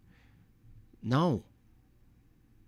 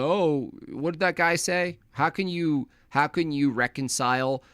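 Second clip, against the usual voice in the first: mock questioner; 2 semitones higher than usual. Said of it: "They're like".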